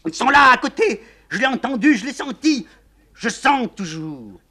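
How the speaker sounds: wife screaming at the general; hysterical screaming. Acted. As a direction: howl it out in fury. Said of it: "La générale hurle".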